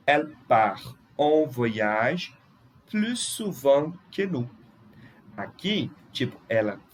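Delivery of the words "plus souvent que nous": "plus" without its final S, said slowly; silent S in plus. Shown as a demonstration. Teacher modelling French comparison for students, silent S in "plus". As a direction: say "plus" as "plu" before souvent. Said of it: "não pronuncia o S".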